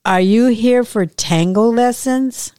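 a hint of Argentinian accent, patient repeat; Spanish accent. A narrator's reading. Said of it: "She repeats".

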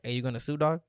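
lightly voiced homie, toned down; easy, understated buddy question; Pedro's corrected voice. Friend asking him over a gas mishap, corrected homie voice. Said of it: "he don't talk like that".

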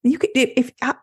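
sweet clients. Retold or imitated. Kind salon clients telling the stylist to wash them cold, lightly voiced gentle reassurance. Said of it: "my sweet clients".

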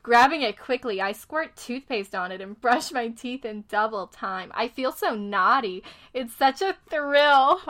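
friend reading a novel excerpt aloud to mock it; reading the book aloud. Shown as a demonstration. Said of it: "I just have to read it".

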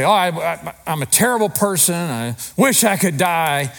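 mildly hammed-up wallowing; mock woe-is-me, slowing on the final wish; self-pity. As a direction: play the martyr, dragging out the ending. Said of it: "We start to wallow in our self-pity".

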